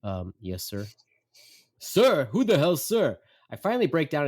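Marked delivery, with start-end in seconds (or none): 0.0-0.9 feigned politeness. Retold or imitated. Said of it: "act as if he's just another audience member I've never met". 1.8-3.2 high, loud mock indignation; indignant dad. Dad to son who pretends not to know him, indignant. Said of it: "Finally, he yells".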